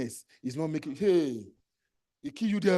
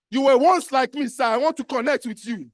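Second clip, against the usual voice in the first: humble greeting; 6 semitones higher, 5 dB louder than usual. Pretend. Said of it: "remind him of his day".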